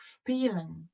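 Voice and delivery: Spielen with shp at the start; German Spielen. Shown as a demonstration. Teacher giving an example of the shp rule, clear German word. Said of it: "give me example for this rule".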